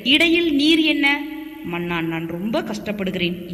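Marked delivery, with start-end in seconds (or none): 1.6-3.5 low, soft self-pitying whine; whining plea. Acted. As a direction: moan to the king for sympathy. (தாழ்ந்த குரலில் முனகல்)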